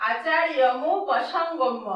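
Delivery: আচার্যমু পসঙ্গম্য said slowly with a break after আচার্যমু; teacher modelling the phrase; careful pronunciation. Shown as a demonstration. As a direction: split it as আচার্যমু then পসঙ্গম্য. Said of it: "এভাবে উচ্চারণটা করতে হবে".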